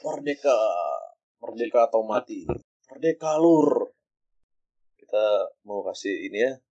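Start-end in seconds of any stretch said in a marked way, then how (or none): 0.0-3.9 roaring rallying cry. Acted.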